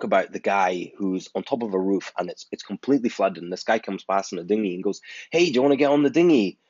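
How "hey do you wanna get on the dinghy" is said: calling out. Retold or imitated. Man in dinghy calls to roof.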